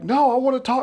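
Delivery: high, loud whiny protest; whiny partner. Retold or imitated. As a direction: whine like a sulking kid. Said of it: "he's like".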